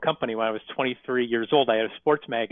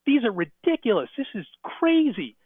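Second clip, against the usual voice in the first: high, incredulous mock scoff, slowing on the last words; a retold plumber scoffing at a rookie's rate card; 10 semitones higher than usual. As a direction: act out a plumber mocking the prices.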